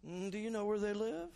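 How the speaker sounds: high, laughing, caught-out stammer; flustered laughing reply. Retold or imitated. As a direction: laugh through the yeahs like you forgot. His own flustered reply retold.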